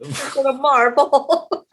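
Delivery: very slow, stretched Filipino-accented MARVEL. Shown as a demonstration. Mom shows her kids her Filipino accent, drawn out. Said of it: "my Filipino accent".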